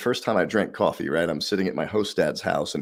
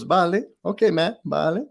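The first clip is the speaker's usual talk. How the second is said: high, louder hammed-up Spanish dad shrugging; resigned host dad; 10 semitones higher, 4 dB louder than usual. Spanish host dad letting Matt have his way, hammed-up resigned. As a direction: give up with a theatrical sigh of consent.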